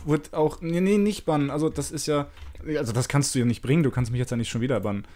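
digitally distorted voice; voice changer. Real, not acted. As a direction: speak through a voice changer. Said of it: "ich mach mal den Stimmverzerrer kurz aus".

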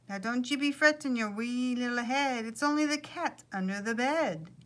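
lilting attempt at an Irish leprechaun; lightly done Irish accent; poor Irish accent. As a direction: reassure in an amateur Irish brogue. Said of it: "My poor Irish accent".

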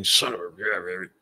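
grumbled curse. Retold or imitated. Grumbling to himself over the forgotten tool, slow and irritated. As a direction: bite off the curse in a mutter. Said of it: "I'm grumbling".

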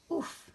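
short, breathy acted "oof"; effortful oof. A narrator's reading. Douglas straining at a heavy hug, puffing out. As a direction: puff out under a weight. Hugging something too heavy.

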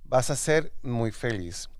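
slow, deliberate reading with dramatic pauses; reading aloud verbatim. Acted. Host reads mother's school advice back to her, slow deliberate reading. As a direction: draw out each grade, savouring the verdict. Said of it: "estoy leyendo textual".

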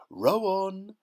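high, loud shout. A narrator's reading. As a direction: bellow the order to the rowers. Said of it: "shouted Mister Wonka".

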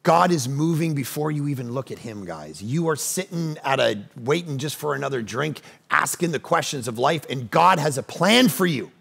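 hushed pastoral reassurance. Acted. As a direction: speak it gently to the one listening. Quieter turn in sermon.

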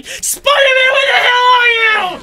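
high, loud call across the street. Pretend. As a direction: shout for Spider-Man to show up. Calling out for Spider-Man.

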